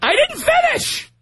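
high, sharp cry of frustration; exasperated outburst. Real, not acted. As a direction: snap at the interruption. Host interrupted by caller.

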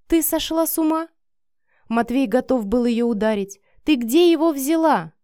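ready to strike her, shout; enraged man shouting at a woman; furious. Acted. Matvei furious at Miranda.

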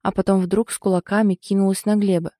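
usual speaking voice

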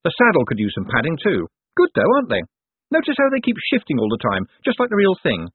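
high, projected voice over noise; mild yell. A narrator's reading. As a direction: keep calling out cheerfully over the din. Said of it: "Moist yelled to make himself heard".

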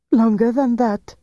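high, sharp indignant retort. A narrator's reading. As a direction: bristle at the insult. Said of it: "she said indignantly".

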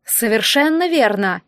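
slow, soft hiss on Совершенно верно!. Acted. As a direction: let Совершенно верно! slide out slowly, hissing the s. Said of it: "мягким шипящим голосом".

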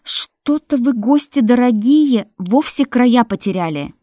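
loud, high, frightened shout; frightened widow yelling at the merchants; ringing with fear. Acted. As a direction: shout through panic. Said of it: "Голос её звенел от страха".

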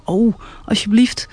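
breathy hushed plea, barely voiced; pleading whisper. Whale begging himself not to sigh, whispered.

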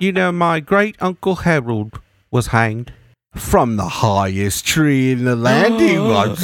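slow, drawn-out boast of a proud peasant; boastful peasant. Acted. A peasant bragging about a hanged great uncle, slow and proud. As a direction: relish it slowly, like a family legend.

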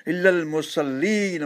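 slow chanted recitation with a rising close; slow Quranic chant. Acted. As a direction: intone the verse slowly and reverently.

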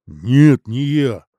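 sudden loud frightened no; scared manager denying blame; fearful denial. Acted. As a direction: blurt it out in fear of a blow. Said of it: "опасаясь, что его снова ударят".

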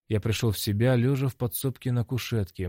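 ordinary delivery, nothing marked

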